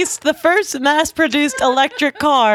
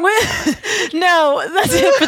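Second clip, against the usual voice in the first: laughing; 4 semitones higher, slower than usual. Real, not acted. Host still laughing.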